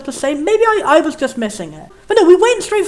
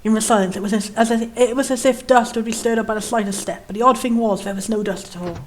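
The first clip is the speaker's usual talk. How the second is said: measured, slightly lower narrator read; story narration; 4 semitones lower, 5 dB quieter than usual. A narrator's reading. Reading the dark antechamber's description, measured narration.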